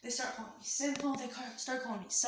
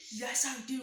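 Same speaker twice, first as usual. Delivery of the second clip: yelling back; 3 semitones higher, 5 dB louder than usual. Retold or imitated. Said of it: "I'm, like, yelling back".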